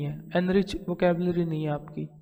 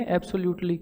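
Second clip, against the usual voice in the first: Indian local way; 3 semitones lower, 4 dB quieter than usual. Shown as a demonstration. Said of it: "हमारा बोलचाल का तरीका है उसमें इसको क्या बोल देंगे".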